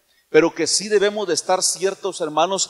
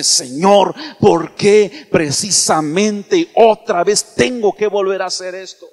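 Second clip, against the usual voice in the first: frustrated prayer; 6 dB louder, slower than usual. Pretend. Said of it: "se enoja y dice".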